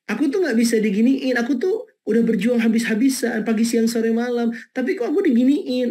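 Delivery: a hint of a whining wife; whiny victim. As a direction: imitate someone who feels wronged. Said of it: "Ya kan?".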